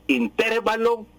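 "intervalo" drawn out, stressed on TER; slow in-TÉR-va-lo for "intervalo"; mistaken stress. Shown as a demonstration. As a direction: lean on the E of "intervalo". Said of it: "intervalo es incorrecto".

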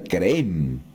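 creen with stress on the final E; acento agudo final. Retold or imitated. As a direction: say creen as creÉN, long last E. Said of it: "con acento agudo en la E final, creen". (creen con la última e acentuada)

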